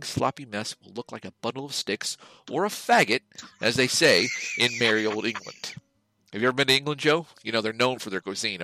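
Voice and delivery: hammed-up commercial pitch voice; mock ad read. Reading the podcast sponsor copy to Joe, mock ad read. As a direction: sell the fake product like a cheesy TV spot.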